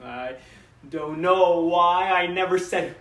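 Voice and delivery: halting, regretful papa; a father haltingly confessing what went unsaid; understated rueful monologue. Acted.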